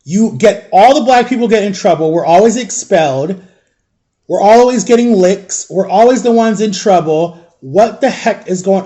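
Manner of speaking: retold indignant tirade, emphatic; fired-up reenacted telling-off; letting him have it. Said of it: "I let this principal had it".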